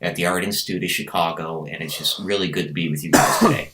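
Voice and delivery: lightly voiced courteous introduction; mock-polite, tidy self-presentation; white guy impression. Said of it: "white guy impression".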